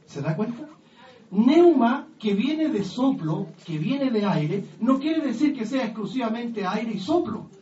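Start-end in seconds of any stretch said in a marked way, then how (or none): 1.3-7.5 loud, slow, emphatic preaching; forceful preaching. Acted. Preacher explaining neuma to the congregation, loud and emphatic. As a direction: drive each phrase home to the congregation. Preacher stresses key word.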